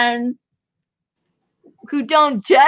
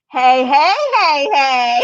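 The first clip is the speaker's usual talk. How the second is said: laughing hey; 4 dB louder, slower than usual. Pretend. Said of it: "we'll all go there and go".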